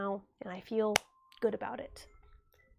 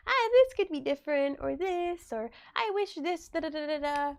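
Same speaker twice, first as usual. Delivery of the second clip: lightly voiced, higher-pitched fretting; mock fretting; 4 semitones higher than usual. Streamer imitating anyone unhappy with their looks, mock fretting. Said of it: "it's always gonna be like".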